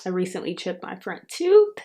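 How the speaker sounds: talking around a retainer; slightly lisped retainer speech; wearing a retainer. Real, not acted. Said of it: "I have in my retainer, so if I'm talking a little weird".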